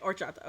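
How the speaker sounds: "horchata" said with no H, as "or-CHA-ta"; silent H. Shown as a demonstration. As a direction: drop the H and open "horchata" on the O. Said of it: "don't pronounce the H".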